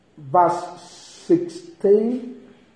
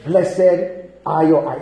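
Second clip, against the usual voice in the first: lower, gently spoken blessing; Jesus blessing; 4 semitones lower than usual. Retold or imitated. Preacher voices Jesus blessing disciples, measured reassurance. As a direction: bless them, easing off from the curse. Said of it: "But Jesus Christ said".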